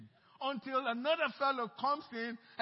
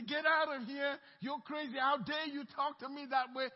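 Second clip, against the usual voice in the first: mock cursing; 4 semitones higher, 4 dB louder than usual. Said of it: "they curse me out".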